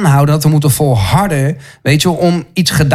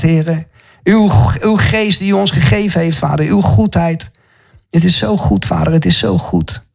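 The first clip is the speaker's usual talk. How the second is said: fervent prayer; 2 semitones higher than usual. Real, not acted. Preacher thanking the Father in fervent prayer. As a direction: pray with devotion.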